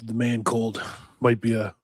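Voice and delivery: congested and worn out; sick voice. Real, not acted. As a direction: sound under the weather. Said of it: "whatever I am sick with right now".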